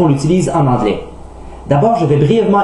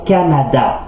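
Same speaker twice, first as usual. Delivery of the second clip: "Canada" with every syllable equally weighted; accent égal sur chaque syllabe; slower than usual. Shown as a demonstration. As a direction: give each syllable of "Canada" the same emphasis. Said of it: "on prononce chaque syllabe avec la même emphase". (« Canada » sans accent tonique, syllabes égales)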